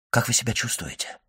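softly murmured, confidential question; hushed question. A narrator's reading. Doctor secretly questions the old man, hushed. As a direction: keep it down, almost a whisper. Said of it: "быстро спросил он шёпотом".

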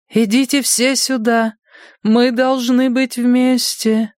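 high, slow sing-song call; strange radio voice. A narrator's reading. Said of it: "короткие всплески голосов звучали странно, походили на пение".

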